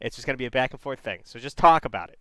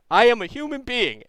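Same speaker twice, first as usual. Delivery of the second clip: laughing through the line; 8 semitones higher, 5 dB louder than usual. Real, not acted. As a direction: laugh as you say it. Laughing while acting the line.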